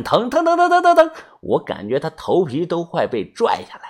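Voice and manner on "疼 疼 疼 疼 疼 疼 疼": very high, rising yelps of hurt; girl screaming that it hurts; loud cries of pain. Acted. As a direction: shriek as your hair is pulled. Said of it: "大声的喊".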